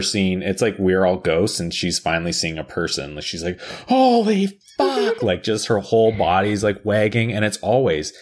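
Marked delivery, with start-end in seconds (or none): 3.9-5.2 high, drawn-out amazed voice; overjoyed dog. Retold or imitated. Dog finally seeing a person, high slow amazement. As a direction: stretch it out as an ecstatic dog.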